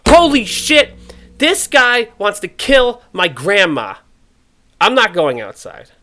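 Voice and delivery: high, loud hammed-up panic; mock panic. Viewer panicking that a politician wants grandma dead, hammed-up shout. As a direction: freak out at the news, slowly and loudly.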